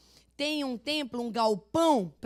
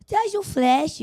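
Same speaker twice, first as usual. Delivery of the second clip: pleading grandchild; 5 semitones higher, 4 dB louder, slower than usual. Retold or imitated. Grandson Levi asks for toys.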